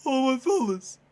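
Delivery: quoting through laughter; laughing quote. Retold or imitated. Retelling the chat line, laughing. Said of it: "nigga in the back goes".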